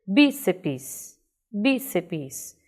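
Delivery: "Bíceps" with strong BI, weaker "ceps"; stress on BI. Shown as a demonstration. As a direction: lean on the first syllable of "bíceps". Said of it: "bi é muito mais forte". ("bíceps" com BI forte e final mais fraco)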